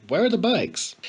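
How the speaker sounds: words pushed out on short breaths. Acted. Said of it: "he panted".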